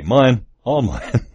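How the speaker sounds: hammed-up greedy kid grabbing every present; greedy child's gloat. Kid at Christmas claiming all the presents, mock gloating.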